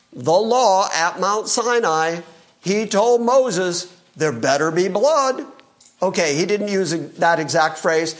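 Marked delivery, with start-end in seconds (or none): 4.2-5.5 put-on Jewish accent. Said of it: "with quite the Jewish accent".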